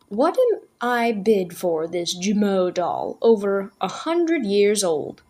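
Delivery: slow, drawn-out auction call; auctioneer's call. A narrator's reading. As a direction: call it out to the crowd. Auctioneer calling for bids.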